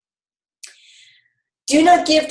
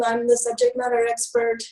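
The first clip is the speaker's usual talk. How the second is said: mantra said much higher, with a mock-proud lilt; confident mantra; 12 semitones higher, 4 dB quieter than usual. Shown as a demonstration. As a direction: recite it high like a self-assured motto. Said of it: "remember the mantra".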